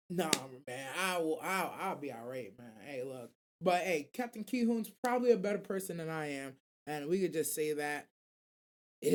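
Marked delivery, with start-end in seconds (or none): 0.1-3.3 meek backing out. Retold or imitated. Others backing out meekly.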